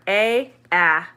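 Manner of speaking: "A" as its letter name, then "ah" as in cat; long then short. Shown as a demonstration. Teacher contrasting the two A sounds for learners, long then short. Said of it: "long, short".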